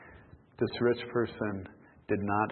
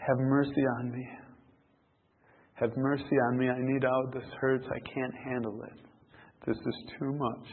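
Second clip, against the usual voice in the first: mildly anguished plea, pitch a touch raised; crying out; 3 semitones higher than usual. Acted. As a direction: plead for mercy with understated distress. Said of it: "He cries".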